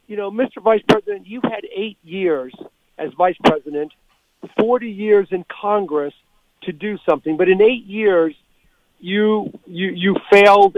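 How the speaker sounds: measured retelling with weighty pauses; quietly deliberate. Retold or imitated. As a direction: quote it deliberately, phrase by phrase. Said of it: "he did it quietly and deliberately".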